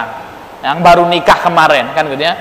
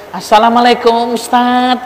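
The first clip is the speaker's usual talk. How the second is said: soft sweet greeting; 3 semitones higher than usual. Shown as a demonstration. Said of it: "maka mendayu-dayukan suaranya itu".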